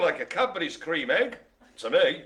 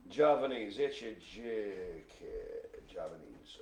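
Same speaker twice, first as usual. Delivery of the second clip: lightly put-on old-time New York accent; 1930s New York accent; 6 semitones lower, 6 dB quieter than usual. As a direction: drop into a low-key thirties New York announcer accent. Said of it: "weird nineteen thirties New York accent".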